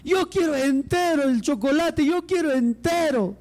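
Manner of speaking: mock wail of a whining child; tearful child complaint. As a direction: drag out the protest like a little boy crying to mamá. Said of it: "empieza a llorar y dice".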